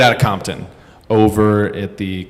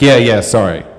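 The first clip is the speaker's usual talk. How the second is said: breezy mock apology; 4 dB louder than usual. Talker's loud insincere apology.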